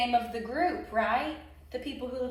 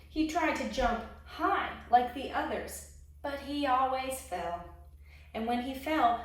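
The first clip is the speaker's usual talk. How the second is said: lively storybook narration; expressive picture-book reading; reading to children; 3 dB louder than usual. A narrator's reading. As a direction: read it like a children's story time. Reads a picture book aloud.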